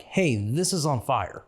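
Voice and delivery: slow, stressed alarm. Shown as a demonstration. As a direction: lean on each word, slowly. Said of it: "you need a little more emphasis on".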